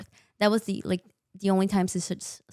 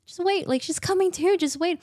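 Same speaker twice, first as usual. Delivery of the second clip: retold plea; 11 semitones higher, 4 dB louder than usual. Mother pleading with the surgical team.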